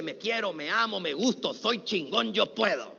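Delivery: 1 quiet self-talk. Shown as a demonstration. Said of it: "Vete en el espejo y dite".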